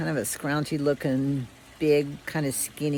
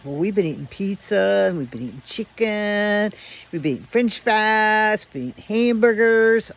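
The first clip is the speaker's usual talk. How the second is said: building brag; 3 semitones higher, 3 dB louder than usual. Retold or imitated. Dogs listing food, building.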